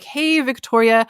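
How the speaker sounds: bright, stretched "Hey, Victoria"; friendly enthusiastic greeting. Shown as a demonstration. Coach showing the friendly American greeting, enthusiastic. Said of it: "what it means in American English to be like".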